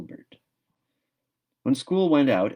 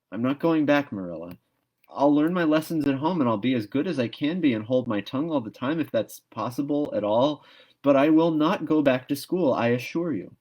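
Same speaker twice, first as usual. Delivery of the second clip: higher, louder firm refusal; stubborn young Anne; 6 semitones higher, 4 dB louder than usual. A narrator's reading. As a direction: plant your feet and refuse.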